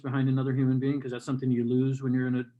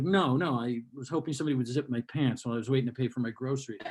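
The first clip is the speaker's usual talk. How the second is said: sarcastic reply; 3 semitones lower than usual. Retold or imitated. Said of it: "And I'm like".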